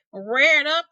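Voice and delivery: dramatic storyteller lift; rising excitement. A narrator's reading. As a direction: make the snake rise up. Snake rears up.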